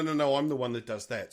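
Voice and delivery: usual speaking voice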